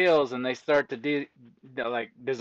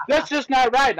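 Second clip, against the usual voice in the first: higher, whiny mock complaint; mock upset commenter; 9 semitones higher, 3 dB louder than usual. Pathologist mocking TikTok commenters, higher indignant voice. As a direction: play the offended viewer, pitched up.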